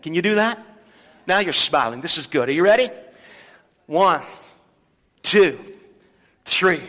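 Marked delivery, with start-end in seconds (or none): none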